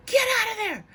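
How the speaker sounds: high, loud urgent cry to flee; warning shout. Retold or imitated. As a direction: yell it like a ghost shooing you out. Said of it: "hear them be like".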